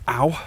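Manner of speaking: sudden yelp of pain; short pained ow; stubbed toe. Real, not acted. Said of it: "I just stubbed my toe".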